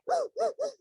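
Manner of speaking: a high, sharp sob-gasp; sobbing gasp. Acted. Mother acting out her sobbing toddler with a high gasp. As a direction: gulp air like a crying child mid-tantrum. Acted crying child.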